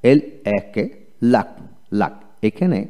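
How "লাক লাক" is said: লাক with short A and a single K; U not pronounced. Shown as a demonstration. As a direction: model লাক as one short syllable ending in K. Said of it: "ইউ উচ্চারিত হবে না।". (লাক, ইউ-এর বদলে এ ধ্বনি)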